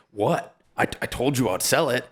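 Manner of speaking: chuckling through a smug excuse; mock innocence, half laughing; laughing mock quote. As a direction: laugh while playing the shameless seller. Mocking influencer after dumping.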